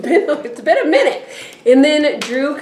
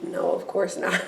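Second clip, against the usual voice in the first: calm denial; 9 dB quieter than usual. Retold or imitated. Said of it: "calm as always".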